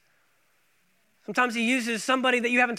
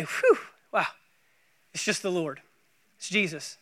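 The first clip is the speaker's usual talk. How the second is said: softer, relieved mock sigh; 5 semitones lower, 5 dB quieter than usual. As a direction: let the fear drain out with a whew. Disciples relieved seeing Jesus.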